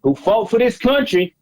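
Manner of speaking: put-on a caller hamming up a Southern accent; terrible Southern accent. Prank caller to the candidate in a fake Southern accent. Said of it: "the terrible Southern accent".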